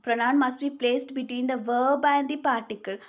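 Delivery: very slow, word by word, for note-taking; slow dictation. Shown as a demonstration. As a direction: spell the rule out slowly so students can write it. Dictating the rule slowly.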